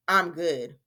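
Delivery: low, dull "I'm good"; downbeat good. Shown as a demonstration. Teacher contrasting tones of voice for the same answer, downbeat. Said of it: "They can tell by the tone of your voice".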